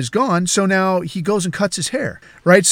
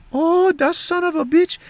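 high-pitched, dawning outrage; indignant housekeeper; 12 semitones higher than usual. Retold or imitated. Housekeeper realising who wronged her, high indignant voice. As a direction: voice her far above your own as it sinks in.

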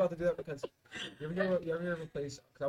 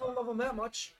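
mock deadpan refusal; 9 semitones higher, 4 dB louder than usual. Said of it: "I'm like".

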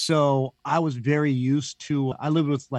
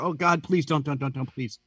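mock pleading. Child begging dad not to use the belt, mock pleading. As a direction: beg like a scared kid, half joking.

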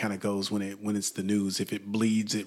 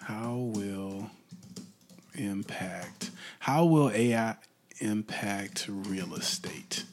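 mumbled typing; 4 dB quieter, slower than usual. Shown as a demonstration. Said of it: "Let's try that one".

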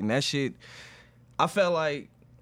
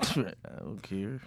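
slow, dismissive laugh; angry laugh; 4 semitones lower, 6 dB quieter, slower than usual. Real, not acted. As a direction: laugh it off with annoyance. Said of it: "Did you see that angry ass laugh right there?".

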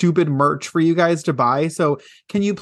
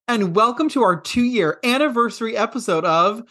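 announcer shout; 9 semitones higher than usual. Acted. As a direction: boom it out like a monster truck rally. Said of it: "That was so good".

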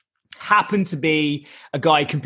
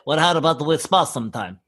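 imitated Russian fighter accent. Russian challenges the comic to spar, Russian accent. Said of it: "that is an exact accent".

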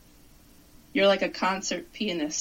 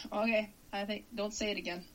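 quiet; 10 dB quieter than usual. Real, not acted. Fighting nausea, pleading.

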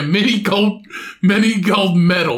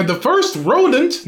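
higher-pitched put-on British accent; mock British accent; 5 semitones higher than usual. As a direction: attempt a British accent on the news copy. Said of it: "I can't do it".

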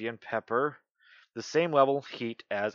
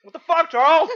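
shocked yell; 10 dB louder than usual. Real, not acted. The pepper heat hits hard.

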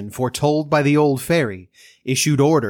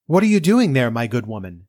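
cartoon princess. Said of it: "said the princess".

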